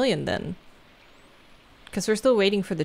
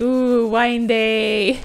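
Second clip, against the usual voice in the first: excited; 4 semitones higher, 6 dB louder, much slower than usual. Retold or imitated. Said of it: "I was like".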